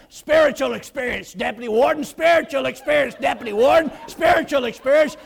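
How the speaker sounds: loud, building repeated plea; frantic explaining. Retold or imitated. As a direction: hurry out calling it again and again. Chaplain rushes out explaining.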